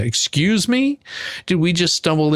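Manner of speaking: high, rising outraged question; indignant surprise. Acted. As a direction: act shocked, like you can't believe it. Mock outrage at humans only.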